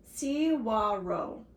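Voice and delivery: cigarro said slowly as "see-WAH-ro"; careful pronunciation. Shown as a demonstration. Reader shows the Spanish word, cigarro slowly as "see-WAH-ro". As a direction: sound out cigarro with a W, no G. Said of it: "and it's pronounced".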